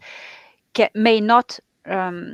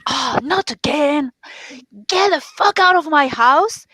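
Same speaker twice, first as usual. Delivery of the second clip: higher-pitched, exasperated dismissal; fed-up attitude; 6 semitones higher than usual. Shown as a demonstration. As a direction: act out fed up, then order them out. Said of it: "you take this attitude like".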